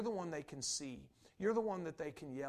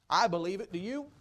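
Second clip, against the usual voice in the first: much louder, punchy declaration; loud challenge; 3 semitones higher, 10 dB louder than usual. Real, not acted. Preacher challenges his congregation, loud and punchy. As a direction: call out your faith and dare them.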